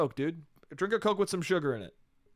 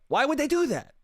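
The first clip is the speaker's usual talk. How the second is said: much higher, incredulous repeat of the question; mock disbelief; 9 semitones higher than usual. Shown as a demonstration. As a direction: ask it again in a high, stunned voice.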